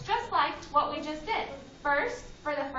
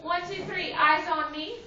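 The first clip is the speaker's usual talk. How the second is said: kindergarten teacher voice; 4 semitones higher, 4 dB louder than usual. Real, not acted. Class attention call-and-response.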